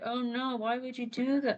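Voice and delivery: mild mock dismay. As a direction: plead with him. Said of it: "They're like".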